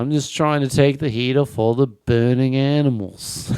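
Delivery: broad mock Australian; Australian accent. Australian joking about burning animals, Australian accent. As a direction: joke along in a put-on Aussie accent. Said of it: "my impression of an Australian person".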